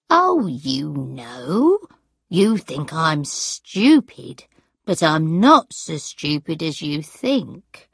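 put-on slow, slightly offended old woman; a touch of hurt pride, drawn out slowly; lightly voiced indignant gran. Gran insisting to granddaughter she isn't stupid, mildly indignant and slow.

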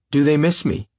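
high, thrilled cry; ecstatic cry. Acted. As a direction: cry it out with delight. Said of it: "she cried ecstatically".

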